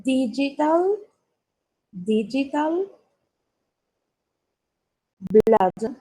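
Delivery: one word at a time, long gaps between; slow dictation. Shown as a demonstration. Teacher pronouncing for pupils to write what they hear, slow dictation. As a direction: stretch and separate each word for learners to copy. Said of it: "La voy a pronunciar lentamente".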